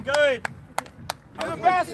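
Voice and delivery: loud encouraging call; cheering shout. Real, not acted. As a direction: yell praise across the field. Coach cheering players on.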